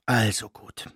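ordinary delivery

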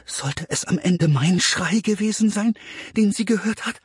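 put-on worried thought of a frightened boy; deeply worried. A narrator's reading. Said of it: "dachte Bastian zutiefst beunruhigt".

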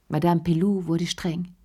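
usual speaking voice

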